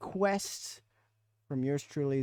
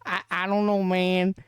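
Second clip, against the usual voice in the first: hillbilly redneck voice; 7 semitones higher, 6 dB louder than usual. Acted. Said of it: "wear your voice out".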